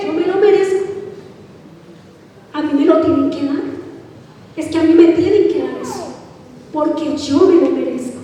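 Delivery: a hint of quick, entitled arrogance; arrogant. Preacher mimicking an entitled man, lightly arrogant. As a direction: rattle it off like a spoiled man. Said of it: "Eso es una actitud de arrogancia".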